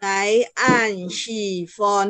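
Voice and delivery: NGAI, AN, SHI, FON each falling; unchanged third tone. Shown as a demonstration. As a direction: separate downward tones on "Ngai, an, shi, fon". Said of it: "Ini annya tidak berubah".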